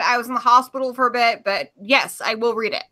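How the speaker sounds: talking through a mouthful of pizza; chewing while answering; mouth full. Real, not acted. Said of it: "My mouth is full of pizza".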